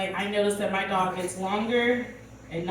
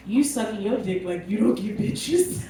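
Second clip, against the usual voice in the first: teasing the dog. Retold or imitated. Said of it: "my favorite thing to tell him is".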